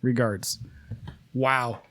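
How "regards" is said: fake British. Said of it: "fake British".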